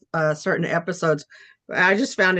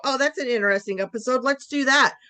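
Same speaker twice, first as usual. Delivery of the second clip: quicker, higher pretend enthusiasm; mock eager idea; 5 semitones higher, faster than usual. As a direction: play someone lightly seizing on an idea. Voicing imagined imitators of show.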